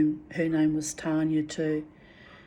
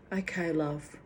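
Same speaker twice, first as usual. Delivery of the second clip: a softer, worn-out imitation; exhausted; 7 dB quieter than usual. The worn-out wife answering her husband, in a soft, drained voice. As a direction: let the words sag as though too tired to care. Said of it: "so wrung out and exhausted".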